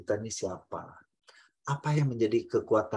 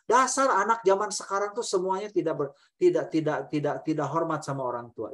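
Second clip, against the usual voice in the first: scornful generalizing; 3 semitones higher, 4 dB louder than usual. Shown as a demonstration. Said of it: "Itu semua digeneralisasi".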